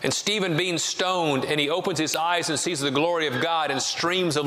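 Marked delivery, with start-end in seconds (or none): none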